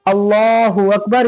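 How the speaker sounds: prayer cadence; takbir recited. Shown as a demonstration. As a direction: lift the voice on Akbar. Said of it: "ये दोनों हाथ एकदम सीधे".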